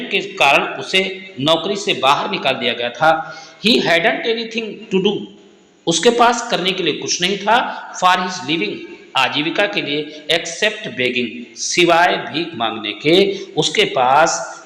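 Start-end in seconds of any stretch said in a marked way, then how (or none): 3.7-5.3 slow dictation. Shown as a demonstration. Teacher dictates answer slowly. 10.3-11.6 slow dictation. Shown as a demonstration. Teacher dictates answer slowly.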